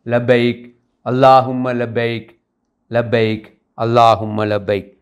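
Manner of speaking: measured, ringing verse recitation; poetic declamation. Acted. Host opening a Hajj poetry gathering, poetic declamation. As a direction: declaim it phrase by phrase with pauses.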